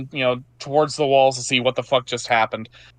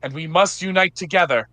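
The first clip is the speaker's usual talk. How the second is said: rousing knight's speech; 4 semitones higher than usual. Acted. Johanna continues her rallying speech.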